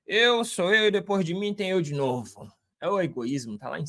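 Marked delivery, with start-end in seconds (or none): 0.0-2.5 boastful egotist. Retold or imitated. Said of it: "aquelas pessoas que falam assim".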